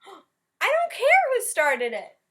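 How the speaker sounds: slow, high, loud shouting teacher; furious teacher. Acted. Teacher stopping a food fight, slow loud shout. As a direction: bellow every word slowly.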